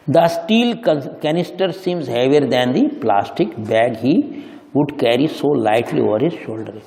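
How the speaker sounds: slow, careful textbook read; slow reading aloud. Shown as a demonstration. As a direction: read it out slowly for the class. Reading the English text aloud. (धीमे पढ़ते हुए)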